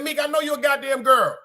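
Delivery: mock-heated insistence; retold exasperated retort. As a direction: act out your exasperated reply to a friend. Retells own heated reply.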